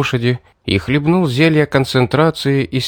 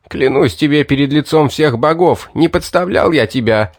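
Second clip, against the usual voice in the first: hasty pleading; 4 semitones higher than usual. Acted. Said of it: "Быстро проговорил Винсент".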